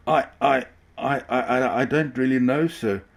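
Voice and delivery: high stammering on the verge of tears; almost in tears. A narrator's reading. Driver near tears before the ringmaster. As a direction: stutter it, nearly crying. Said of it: "was almost in tears".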